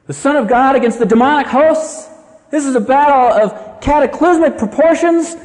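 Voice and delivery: bill it like the match of the century; mock fight hype. Preacher billing Jesus against demons, mock fight hype.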